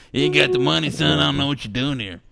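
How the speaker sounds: loud, high mocking rich man; evil capitalist. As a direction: sneer down at a broke kid. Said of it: "do I sound like an evil capitalist".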